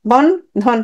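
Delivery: বন্ধন slowly split as বন, then ধন; broken into syllables. Shown as a demonstration. Teacher asking the syllable count, বন্ধন split in two. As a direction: separate বন্ধন into two beats, বন - ধন. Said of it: "আমরা ভেঙে উচ্চারণ করি".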